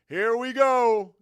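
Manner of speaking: high, loud drawn-out announcer holler; imitating big-time broadcaster call. Host imitates announcer's call before playing the clip, big-time broadcaster holler. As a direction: belt it out slowly like a big-game play-by-play call. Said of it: "Listen to his voice when he goes".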